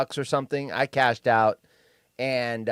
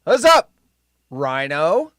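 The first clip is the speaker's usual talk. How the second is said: loud greeting; 2 semitones higher, 9 dB louder, slower than usual. Real, not acted. Calling out show greeting.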